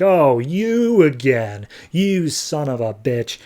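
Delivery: slow, drawn-out mock outrage; mock freak-out. Stranger seeing Question again, mock freaked-out. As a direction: imitate exasperated anger, stretching the words. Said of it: "just freaks out".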